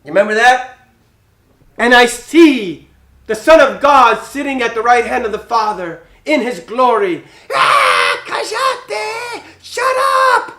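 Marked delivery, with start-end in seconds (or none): 1.8-7.2 martyr's tearful vision. Acted. Martyr's last words voiced. 7.5-10.5 high, angry shout of stoners; furious mob. Acted.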